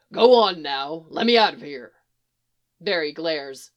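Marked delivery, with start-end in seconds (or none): 0.1-1.9 low, loud urging; encouraging. A narrator's reading. Trapped Firebird urging Barry to free him, encouraging. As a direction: coax him firmly, pitched down. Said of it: "the Firebird says encouragingly".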